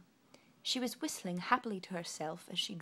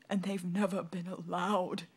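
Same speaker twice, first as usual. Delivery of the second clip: sobbed; 4 dB louder than usual. Acted. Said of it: "he sobbed".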